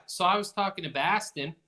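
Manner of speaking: a quick Boston accent on Baston. Shown as a demonstration. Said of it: "that's my best Boston accent".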